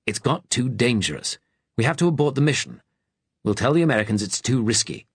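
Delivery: captain. Acted. Captain argues at secret meeting.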